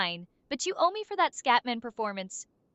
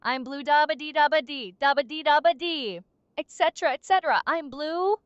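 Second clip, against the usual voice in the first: monotone; 3 dB louder than usual. Pretend. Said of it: "In a monotone, completely unenthusiastic voice".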